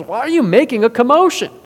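loud, high incredulous question; challenging. Retold or imitated. Jesus confronts the loudly wailing people, challenging. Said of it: "And he challenges them".

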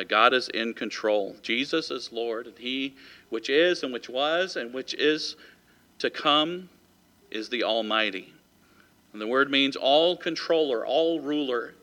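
slow, measured preaching voice. Acted. Preacher tells the congregation God is in control, slow sermon delivery. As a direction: preach each phrase slowly.

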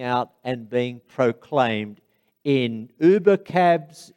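slow, weighty proclamation; solemn preaching. Acted. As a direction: proclaim it slowly to the congregation, with long pauses. Solemn preaching close after the anecdote.

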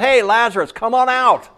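high, loud holler for all to hear; loud public call. Acted. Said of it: "he wanted them to know why".

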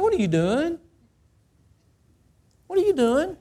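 high, searching voice of God calling out. Acted. God confronting a rebel, high and piercing. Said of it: "God said".

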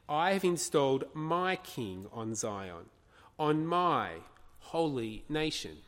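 "my" stressed in a deliberate declaration. Acted. God declaring his king on Zion, stress on "my". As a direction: lean on each "my". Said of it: "Did you notice the emphasis on the, on the my".

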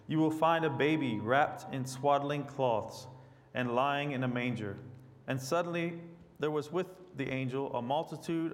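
measured, emphatic Bible reading; scripture reading. Acted. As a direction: read God's word out clearly to the congregation. Reads scripture to congregation.

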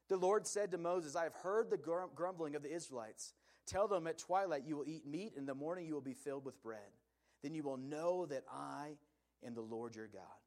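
measured, formal Bible reading; scripture reading. Acted. Pastor reading Exodus to the congregation, formal reading voice. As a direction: read the passage out steadily to the church. Pastor reads verse ten aloud.

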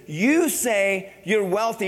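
"You say you're wealthy" drawn out slowly, "you" stressed; slow, weighty accusation; slow measured rebuke. Shown as a demonstration. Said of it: "Jesus says".

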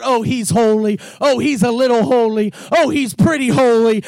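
casual, shrugging "oh" lines; mock understatement. Preacher mocking a half-hearted praise, casual understatement. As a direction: play it lukewarm and offhand. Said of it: "What they're trying to say is not".

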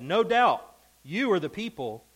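sarcastic Job to his accusing friends; sarcastic reading. Acted. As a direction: read it with a sneer of false praise. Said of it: "the sarcastic phrase".

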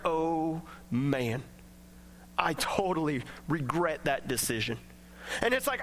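regretful. Retold or imitated. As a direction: voice a guilty listener unsure he belongs. Voicing a regretful churchgoer.

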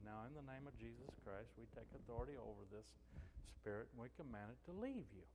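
soft, gentle retold prayer of command. Pastor kneeling by a girl on the floor, very gently commanding. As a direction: quietly take authority, without raising the voice. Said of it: "I very gently said".

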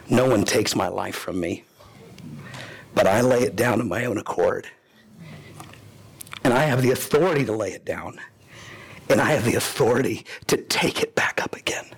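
low, measured words ending in a whisper; Jesus telling his followers, low and calm, fading to a whisper; Jesus speaking calmly. Acted. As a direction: let it settle low and steady, then hush. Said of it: "But Jesus says".

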